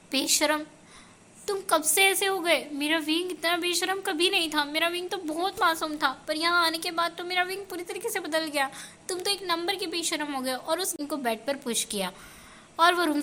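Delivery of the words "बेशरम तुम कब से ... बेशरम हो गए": scolding Lanzhan. Acted. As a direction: chide him gently from above, a touch raised. Lanzhan's voice in story.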